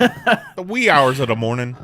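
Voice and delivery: laughing Pennsylvania Dutch imitation; mock Pennsylvania Dutch accent. Friend teases the odd accent, mock Pennsylvania Dutch. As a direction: lightly put on Pennsylvania Dutch, amused. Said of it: "that was like Pennsylvania Dutch".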